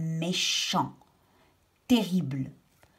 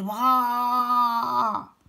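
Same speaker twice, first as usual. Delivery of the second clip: elephant cry; 4 semitones higher, 3 dB louder than usual. Acted. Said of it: "il a crié".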